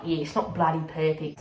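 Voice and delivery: mildly hammed-up Aussie; Aussie accent. Speaker mocks their own slang, mock Aussie accent. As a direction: lean into the Aussie twang on "bloody". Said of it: "as if I'm so Aussie".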